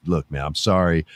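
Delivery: a humble apology from the villain; playing the reasonable version of the character; calm, sorry Drew McIntyre. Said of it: "the Drew McIntyre character would have been like".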